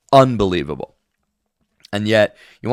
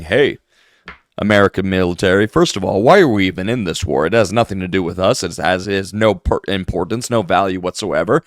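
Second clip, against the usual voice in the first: lightly voiced, quick and lower mock pundit; a hint of a smug right-wing influencer, rattled off; 4 semitones lower than usual. Mocking online pundits, a quick low mock pundit voice. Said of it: "imagine them coming out and saying".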